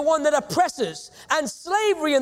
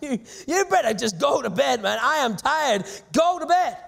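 mildly exasperated, acted-out telling-off; a touch of worn-out impatience; frustrated. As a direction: play a tired man's frustration, understated. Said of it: "very frustrated at this point".

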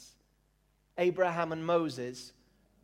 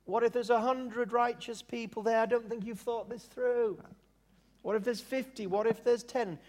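lightly voiced pleading, pitched up; parody Abraham; 4 semitones higher than usual. Abraham bargaining with God for Sodom, mock reasoning. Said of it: "Abraham said".

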